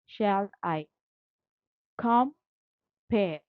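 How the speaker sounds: "Shall I compare" broken up with pauses, "com" held apart from "pare"; syllable by syllable. Shown as a demonstration. Teacher splitting a sonnet line for students, syllable by syllable. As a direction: space out "Shall", "I", "com", "pare" one at a time. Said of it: "To telling two syllables".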